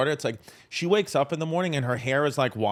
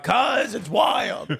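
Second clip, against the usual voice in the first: deadpan impression; 6 semitones higher, much slower than usual. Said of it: "He would just be like".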